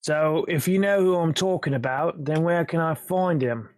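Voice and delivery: lightly voiced British gangster questioning. Intruder questions man hiding in cellar, British gangster accent. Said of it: "sounding like a British gangster".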